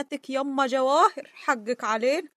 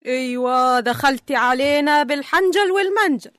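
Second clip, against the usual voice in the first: loud, accusing taunt; confrontational jeer; 5 dB louder than usual. Acted. Woman confronting Donia as she walks in, confrontational. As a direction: challenge the newcomer loudly.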